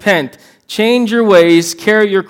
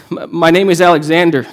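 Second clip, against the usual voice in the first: quivering voice. Acted. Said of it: "in a quivering voice".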